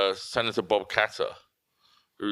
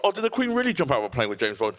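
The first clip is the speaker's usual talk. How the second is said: mock gullible; 4 semitones higher than usual. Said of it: "The one like".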